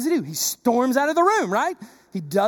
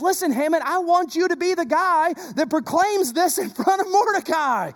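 higher, a hint of royal relish; king savouring the order, lightly voiced; king's command; 4 semitones higher than usual. King ordering Haman to honour Mordecai, relishing it. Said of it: "he looks at him and says".

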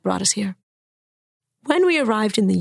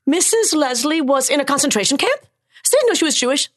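put-on surprised young self; 6 semitones higher than usual. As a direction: ask in shocked disbelief. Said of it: "I said".

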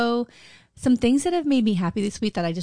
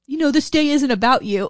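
laughing; 4 semitones higher, 4 dB louder than usual. Retold or imitated. Quoting husband's punchline while laughing.

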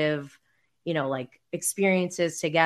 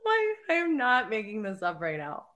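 laughing disbelief; 5 dB quieter than usual. Real, not acted. Laughing at the groom's joke.

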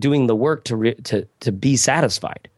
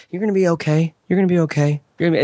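put-on Southern accent; 5 semitones higher, faster than usual. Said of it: "in a little Southern accent".

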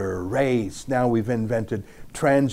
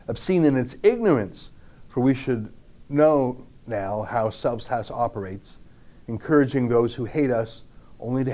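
slow, deliberate reading with long pauses between phrases. Shown as a demonstration. Commentator reading the Bali passage to his viewers, slow and deliberate. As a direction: lean on each phrase and let it land. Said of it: "I'm gonna read this so slowly".

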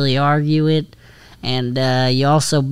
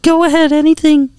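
high, earnest horse voice; talking horse voice. Acted. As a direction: speak up high like a loyal horse.

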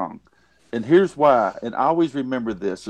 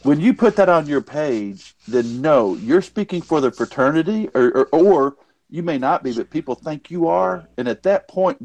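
rant. Real, not acted. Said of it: "He almost raised his voice there".

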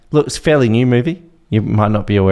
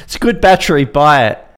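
Australian accent; 3 semitones higher, 3 dB louder than usual. Shown as a demonstration. Co-host wraps up the sponsor ad, Australian accent. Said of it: "That sounded pretty Australian".

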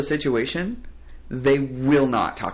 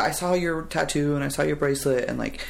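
flustered rambling; 5 semitones higher than usual. Retold or imitated. Flustered employee again.

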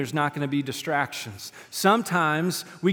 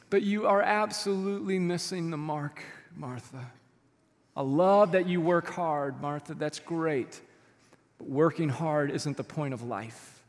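tender rebuke; 2 semitones lower, 5 dB quieter than usual. Retold or imitated. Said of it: "He's heartbroken".

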